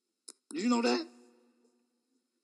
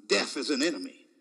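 inner voice; 9 semitones lower than usual. Retold or imitated. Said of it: "another voice rose up on the inside of me".

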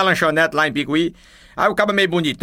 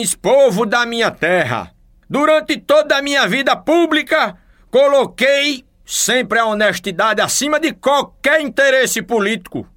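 political speech; 4 semitones higher, slower than usual. Acted. Governor's inauguration speech.

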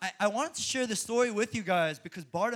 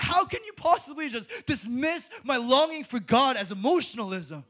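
louder, sing-song indignant question; preacher retelling his indignant reply to the couple; indignant retort; 5 semitones higher, 7 dB louder than usual. Retold or imitated. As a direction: fire back in disbelief. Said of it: "I was like".

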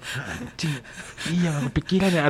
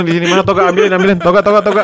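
louder, hurried calls for the gown; hammed-up boss shouting for a gown; mock excited order; 2 semitones higher, 4 dB louder than usual. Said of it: "katanya gitu". (menirukan dosen memanggil toga dengan semangat)

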